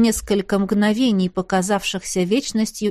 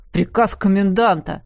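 stern jailer. Acted. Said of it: "строго возразил".

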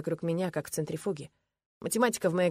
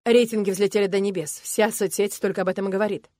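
excited manager; 3 semitones higher, 7 dB louder than usual. Acted. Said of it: "красный от волнения".

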